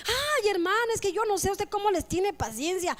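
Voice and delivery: acted high-pitched exclamation of disbelief; exasperated admiration. Congregant marvels at the leader's patience, exasperated.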